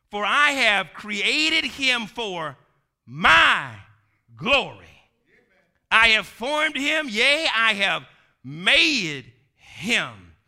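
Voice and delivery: slow, weighty scripture reading; emphasized reading. Shown as a demonstration. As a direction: stress on "created", "my glory", "formed", "made". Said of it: "now I'm gonna read it and put the emphasis there".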